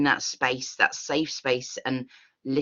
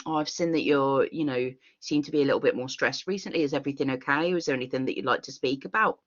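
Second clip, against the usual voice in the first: soft caring check-in; 3 dB quieter, faster than usual. Shown as a demonstration. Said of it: "it's the tone difference there".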